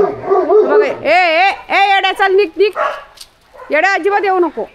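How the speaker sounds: loud, high scolding shout; shooing a dog. Real, not acted. Woman chasing the stray dog Yeda away, angry loud shout. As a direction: drive the stray dog off with a sharp yell.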